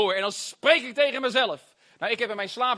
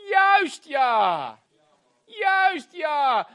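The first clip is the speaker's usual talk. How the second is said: exclaimed agreement, pitch raised on repeat; emphatic confirmation; 6 semitones higher, 4 dB louder, much slower than usual. Real, not acted. Preacher confirming self-upbringing to congregation, emphatic. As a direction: hammer the point home.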